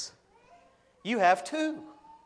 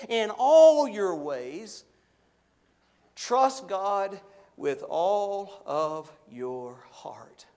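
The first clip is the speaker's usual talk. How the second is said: "all" loud and slow, "heart" whispered; slow, loud, then fading to a whisper; swell then hush; 6 dB louder, much slower than usual. Real, not acted. Preacher climaxing then whispering.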